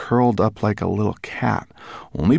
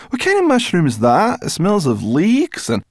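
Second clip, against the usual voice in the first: higher, eager questioning; eager curiosity; 12 semitones higher, 5 dB louder than usual. A narrator's reading. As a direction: ask it keenly, tempted by the smell. Sniffing a delicious mushroom.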